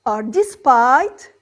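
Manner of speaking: "in spite of" and "despite" drawn out slowly; slow teaching emphasis. Shown as a demonstration. Teacher offering students the replacement words slowly. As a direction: spell each phrase out for learners.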